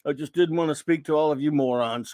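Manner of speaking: put-on lightly done Boston accent; a hint of Boston accent, laid back. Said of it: "in a Boston accent saying".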